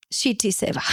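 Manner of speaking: hushed, whispered confession of a swear word; whispered aside. Real, not acted. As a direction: drop to a whisper for the rude word. Confessing a bad seva.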